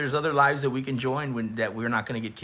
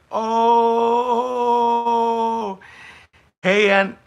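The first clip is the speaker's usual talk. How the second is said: loud, much higher excited outburst; excited shout; 9 semitones higher, 7 dB louder, much slower than usual. Real, not acted. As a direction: burst out in hype. Reacting to savage chat message.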